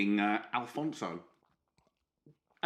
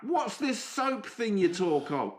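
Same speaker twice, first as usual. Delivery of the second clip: high, slow, exaggerated confusion; mock bafflement; 9 semitones higher, 3 dB louder, slower than usual. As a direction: play dumb in a high drawn-out voice.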